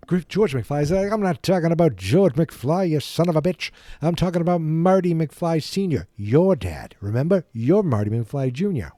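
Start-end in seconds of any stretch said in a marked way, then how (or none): 1.1-8.9 loud, higher-pitched mock tirade; angry mock rant. Film fan acts out a character's insulting rant, loud and angry. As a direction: belt it out as an exasperated bully.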